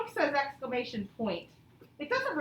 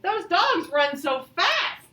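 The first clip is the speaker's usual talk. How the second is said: higher, louder, thrilled read; excited; 5 semitones higher, 7 dB louder, slower than usual. Shown as a demonstration. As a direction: marvel at how fast they run. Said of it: "it needs to have more excitement".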